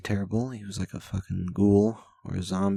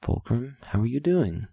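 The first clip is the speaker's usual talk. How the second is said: cheery stranger greeting; 5 semitones higher than usual. Retold or imitated. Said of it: "they could be like".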